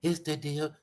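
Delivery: softly done, light rapper impression; a quiet hint of a famous rapper's voice. Proving there's no bass in it, lightly imitated rapper. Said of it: "Think about a famous rapper's voice".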